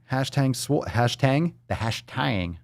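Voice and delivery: Southern twang. Retold or imitated. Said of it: "That's from the Southern twang".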